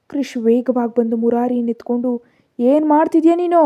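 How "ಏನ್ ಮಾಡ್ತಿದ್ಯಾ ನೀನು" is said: high, loud angry yell; loud shout. A narrator's reading. Krish snatching the child from Aishwarya, shouting loudly. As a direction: bark it out in alarm. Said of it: "ಅಂತ ಅರ್ಚ್ದ ಜೋರಾಗಿ".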